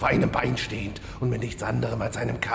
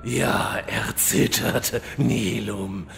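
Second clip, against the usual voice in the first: villain boss; 2 semitones lower, slower than usual. Acted. Boss commands kneel.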